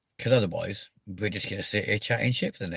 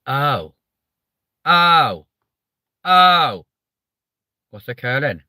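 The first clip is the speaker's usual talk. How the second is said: loud, high, drawn-out Welsh "oh"; hammed-up Welsh catchphrase impression; Nessa; 5 semitones higher, 9 dB louder, much slower than usual. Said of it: "until Nessa said it".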